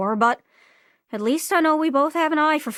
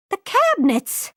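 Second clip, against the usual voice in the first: excited exclaim; 4 semitones higher than usual. Acted. Sudden vision, quiet then loud.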